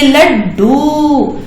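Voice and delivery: लड्डू drawn out, half ड stressed; slow demo. Shown as a demonstration. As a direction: stretch लड्डू slowly. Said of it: "ये जो आधा डा है". (लड्डू धीरे-धीरे)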